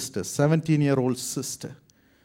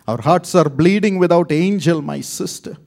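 pleading; 5 semitones higher, 7 dB louder than usual. Retold or imitated. Pleading telex to bank.

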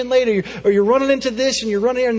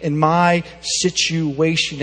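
anguished Elijah; 2 semitones higher, 5 dB louder than usual. Acted. Elijah's complaint retold loudly.

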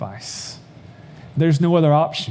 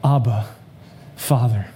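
"Abba" and "Father" set apart by a long pause, gently; an understated, intimate calling out of "Abba... Father"; tender cry to the father; 3 semitones lower than usual. A narrator's reading. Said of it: "he cries out".

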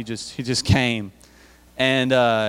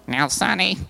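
higher, mocking old-man lecture; old dude lecturing; 4 semitones higher than usual. Pastor mocking how an old man lectures youth. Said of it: "this old dude going".

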